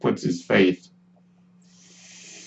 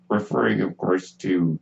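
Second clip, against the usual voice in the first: ordinary talk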